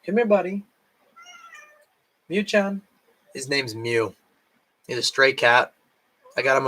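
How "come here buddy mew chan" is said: high, soft coaxing call; calling the cat. Real, not acted. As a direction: coax the cat by name. Calling her cat Mew.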